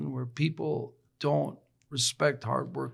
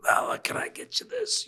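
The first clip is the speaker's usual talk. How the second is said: high, airy mock eagerness; hammed-up excitement, very high-pitched; excited eagerness. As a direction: act out an eager server in a high whispery squeak. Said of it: "There was, like, an excitement".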